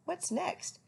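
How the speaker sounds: high owlet voice; eager little owl, high. A narrator's reading. Owlet asking his father, high.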